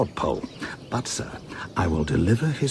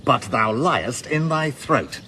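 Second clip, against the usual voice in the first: mock pompous reading; 4 semitones higher, 4 dB louder than usual. Reading Andrew's challenge aloud.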